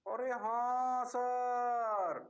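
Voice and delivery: drawn-out, slow student agreement; mock student reply. Teacher mimics students agreeing, slowly drawn out. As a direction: stretch it out like a lazy class.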